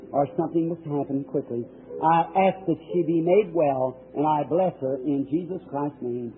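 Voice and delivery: hushed, earnest prayer over her. Acted. Pastor praying over a sick woman, hushed and earnest.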